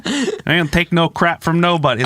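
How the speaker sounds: put-on weak Boston tough-guy accent; a rough, half-hearted try at Boston. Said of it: "Is that a Boston accent?".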